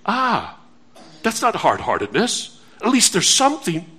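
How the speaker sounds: a lightly voiced careless excuse; mock hearer. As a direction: mimic the shrugging sinner. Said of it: "And you say".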